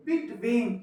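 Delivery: "बिटवीन" split into two separate beats; two-beat stress demo. Shown as a demonstration. Teacher showing students two syllables, "बिटवीन" in two separate beats. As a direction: break "बिटवीन" into बिट and वीन. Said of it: "दो पे पड़ रहा".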